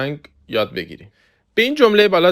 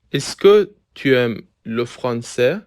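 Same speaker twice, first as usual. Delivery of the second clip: slow model reading; 2 semitones lower, much slower than usual. Shown as a demonstration. Model question after word-by-word version.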